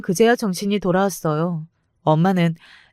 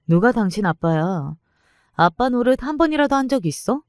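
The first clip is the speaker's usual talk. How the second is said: 따지는 말투; 4 semitones higher than usual. Retold or imitated. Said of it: "하고 따졌지만".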